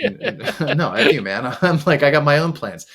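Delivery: a hint of a fed-up brute; defiant monster. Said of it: "one of the monsters, not be into Skeletor".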